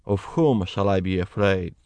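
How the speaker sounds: usual speaking voice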